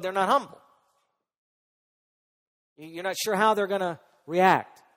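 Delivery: loud, insistent pulpit delivery; emphatic preaching. Real, not acted. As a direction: drive the point home to the congregation. Preaches forcefully about prideful people.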